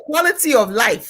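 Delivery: mock disbelieving dad; incredulous echo. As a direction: repeat it back like it's absurd. Dad echoing her phrase.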